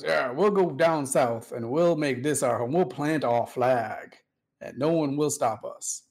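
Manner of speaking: lightly put-on Southern general voice, the flag line slowed; a hint of a general rallying his men to settle the south; old Southern general. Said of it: "like an old Southern general".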